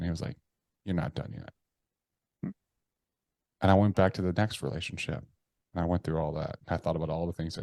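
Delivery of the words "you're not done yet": stern inner voice. Retold or imitated. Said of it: "that voice came back in".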